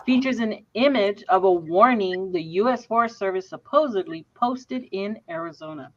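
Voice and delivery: talking while chewing gum; words round a wad of gum. Real, not acted. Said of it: "I gotta take this gum out".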